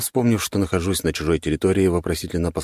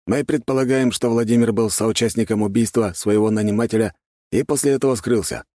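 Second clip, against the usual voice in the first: higher-pitched gendarme chief, lightly voiced; 6 semitones higher, 3 dB louder than usual. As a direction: lightly play an official reporting information, pitched up. Глава жандармов излагает версию. (слегка сыгранный начальник жандармов, голос повыше)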